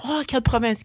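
high, sing-song French query; patronising, hammed-up; mock French cashier. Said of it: "cashier asks".

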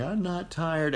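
lightly voiced pouty kid; imitating a child. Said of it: "our five-year-old is saying".

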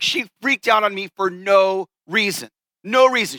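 imitating an aggrieved buddy, pitch jumping on the repeat; mock exasperation. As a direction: complain like a baffled, wronged boyfriend. Retelling buddy's complaint about girlfriend.

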